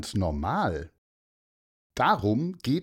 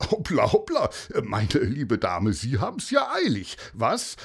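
amused exclamation. Acted. Paulus bumped by a rushing mother, amused. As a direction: tease a hurrying stranger, pitch leaping up. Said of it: "lachte der".

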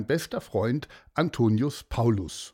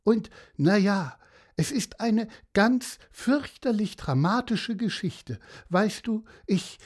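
high-pitched, halting lament; lightly wailed tale of woe; mock sobbing; 9 semitones higher than usual. A narrator's reading. Horse telling of being washed ashore, hammed-up tearful. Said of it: "schluchzte das Pferd".

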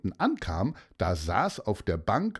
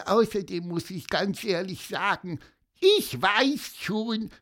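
squeaky cartoon voice; 5 semitones higher than usual. Gonzo the bird speaks.

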